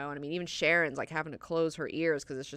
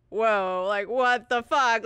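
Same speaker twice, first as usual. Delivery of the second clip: stunned onlookers; 5 semitones higher, 7 dB louder, slower than usual. Retold or imitated. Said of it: "they're all like".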